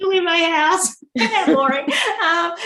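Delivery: high, laughing through the words. Real, not acted. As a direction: giggle it out, a bit embarrassed. Laughing at own boring answer.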